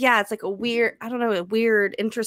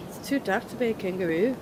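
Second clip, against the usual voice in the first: put-on Australian accent; 6 dB quieter than usual. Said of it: "tried to do an Australian accent".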